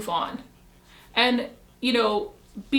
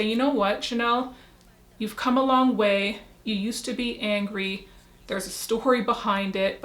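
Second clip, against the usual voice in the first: gentle self-reassurance; 2 semitones lower than usual. Retold or imitated. Telling herself she has come a long way, gently reassuring. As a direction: talk yourself kindly into letting go.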